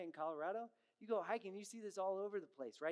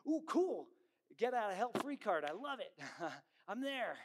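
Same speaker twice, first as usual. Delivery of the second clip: high, louder giddy ooh, cool; mock excitement; 4 semitones higher, 4 dB louder than usual. Preacher imitating an eager new believer, giddy and high. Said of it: "They're like".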